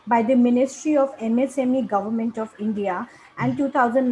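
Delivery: measured, read-out speaker bio; formal guest introduction. Acted. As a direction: present the guest formally to an audience.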